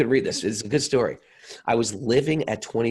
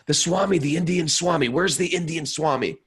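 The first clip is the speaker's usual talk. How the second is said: higher and louder, insistent stranger; the garbage man insisting, pitched up and louder; homeless man's voice; 7 semitones higher, 4 dB louder than usual. Retold or imitated. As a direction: keep the odd high voice as he presses the question.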